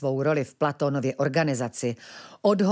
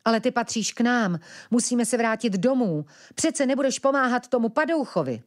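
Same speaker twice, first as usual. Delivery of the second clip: put-on young brother's voice, higher, urgent; urgent boyish plea; pleading; 7 semitones higher than usual. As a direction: beg her to help, higher. Ventilek pleads.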